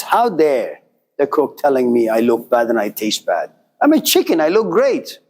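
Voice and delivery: lightly voiced haughty chicken; arrogant chicken. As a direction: play the offended, vain chicken. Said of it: "very arrogant".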